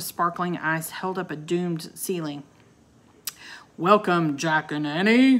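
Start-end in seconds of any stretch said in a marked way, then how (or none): 3.8-5.4 loud, resonant greeting from afar; booming welcome. A narrator's reading. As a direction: boom it out across a great hall. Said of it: "boomed a voice".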